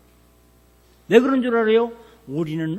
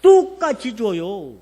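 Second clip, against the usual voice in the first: son insisting; 4 dB louder, slower than usual. Retold or imitated. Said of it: "가리켰지".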